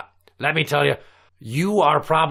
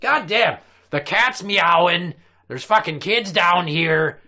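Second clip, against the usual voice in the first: ranting pirate captain; 7 semitones higher than usual. Acted. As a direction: rant like an outraged old captain.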